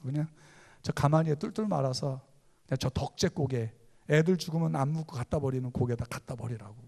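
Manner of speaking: ordinary talk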